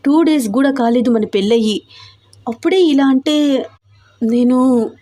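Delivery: lightly voiced anxious young wife; a hint of panicky reproach; flustered heroine. Heroine's anxious protest to husband.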